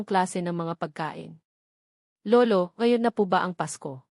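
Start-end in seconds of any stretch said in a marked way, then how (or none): 2.3-4.0 joking question. A narrator's reading. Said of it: "pabiro kong tanong".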